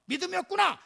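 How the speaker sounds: mildly heated scolding; acted rebuke. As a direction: press the reproach point by point. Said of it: "이렇게 책망할 수도 있었어요".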